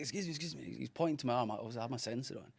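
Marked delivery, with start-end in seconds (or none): 0.0-0.8 softer, higher attempt at a Portuguese accent; half-hearted imitation of broken Portuguese-accented English; poor Portuguese accent. Portuguese stranger stopping someone on holiday, poorly imitated accent. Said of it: "really poorly trying to give his accent back".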